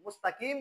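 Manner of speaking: মুস্তাকিম with everyday K in place of Q; mistaken light K. Shown as a demonstration. Teacher flags the error, মুস্তাকিম said with plain K. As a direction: make the K of মুস্তাকিম light and forward. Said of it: "বললে এটা হবে ভুল".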